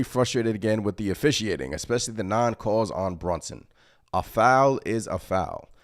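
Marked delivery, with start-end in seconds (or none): 4.1-5.7 quoting Thibodeau. Retold or imitated. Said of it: "That is from Stefan Bondi, Tom Thibodeau".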